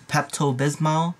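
careful Pepto Bismol, rising at the end; slow and careful. Shown as a demonstration. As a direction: sound out every syllable. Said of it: "have to say it really slowly".

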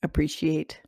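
calm, even meditation voice with long pauses; guided visualization. Acted. Host leading listeners through an imagined morning drink, calm guided meditation. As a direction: guide them unhurriedly, leaving space after each phrase.

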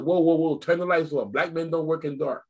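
mock upset scream. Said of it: "I scream like I'm upset".

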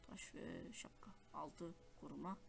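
slow whispered reading; whispering. Real, not acted. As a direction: whisper it to yourself slowly. Reading inventory softly. (fısıltıyla, yavaş)

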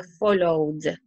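"followed" ending in a released "d" after the vowel; teacher modelling "followed" as follow-d. Shown as a demonstration. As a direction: sound out the final "d" on "followed". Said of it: "Le agregas el sonido d".

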